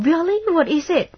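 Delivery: Really? pitched high and loud, eager; showing gladness. Shown as a demonstration. Replying eagerly to a friend's good news, high and loud. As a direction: jump at the news with delight. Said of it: "แสดงความดีใจหน่อย".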